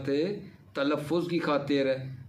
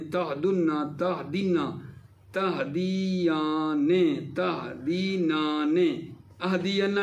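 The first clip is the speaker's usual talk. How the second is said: measured verb-table recital with stretched endings; conjugation drill recitation; much slower than usual. Shown as a demonstration. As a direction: recite form by form, drawing out the long syllables. (لفظ کھینچ کر گردان پڑھنا)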